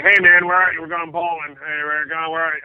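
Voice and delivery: A rock star. Retold or imitated. Rock star to a missing bowling buddy, casual calling-out. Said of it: "on my answering machine is a rock star saying".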